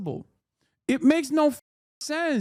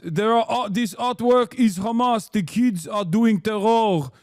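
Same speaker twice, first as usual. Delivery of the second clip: mock envoy with a put-on accent; Danny Danon; 3 dB louder than usual. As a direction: imitate an outraged official's accented speech. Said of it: "He said they were Hamas".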